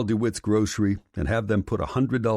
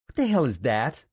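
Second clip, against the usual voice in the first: disbelief; 6 semitones higher than usual. A narrator's reading. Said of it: "Anita asks in disbelief".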